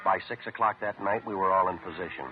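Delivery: clipped radio detective narration; deadpan police report narration; old radio show. A narrator's reading.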